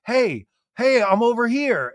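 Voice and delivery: high calling out; lightly voiced Scheana. Scheana greeting Tom at the airport, high calling voice. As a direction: wave someone over. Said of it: "Scheana was like".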